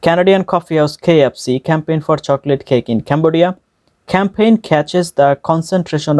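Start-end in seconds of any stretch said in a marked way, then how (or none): 0.1-3.5 slow, measured tongue twister; careful word-by-word reading. Shown as a demonstration. Teacher models the tongue twister for learners, slow and careful. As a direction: pronounce each word distinctly, unhurried. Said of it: "একটা একটা করে word উচ্চারণ করে".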